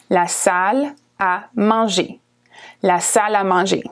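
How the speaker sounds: la salle à manger run together; French pronunciation. Shown as a demonstration. Teacher modelling la salle à manger, French pronunciation. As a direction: say la salle à manger as one flowing phrase. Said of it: "It sounds kinda fast".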